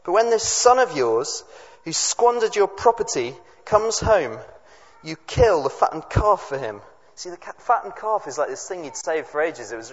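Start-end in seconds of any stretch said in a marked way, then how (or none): 0.0-6.8 higher, indignant accusation; acted resentment in a raised voice; furious older son. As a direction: accuse the father, aggrieved and emphatic. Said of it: "the older son is furious".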